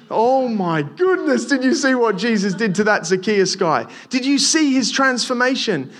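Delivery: excited gossip. Pretend. Neighbour telling neighbour about Zacchaeus, amazed. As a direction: gasp it to a neighbour in wonder. Imagined townsfolk gossiping afterwards.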